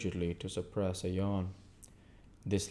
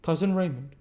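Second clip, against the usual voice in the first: prim lady; 10 semitones higher, 6 dB louder than usual. Acted. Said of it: "observed another lady".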